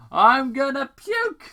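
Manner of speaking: high, loud groaning complaint; Sonic, dizzy after the drone ride, feels sick; queasy hero. Acted.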